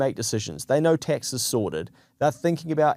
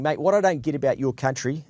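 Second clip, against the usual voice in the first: lightly imitated Australian accent; 3 semitones higher than usual. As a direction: have a casual go at an Aussie accent. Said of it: "is that Australian accent?".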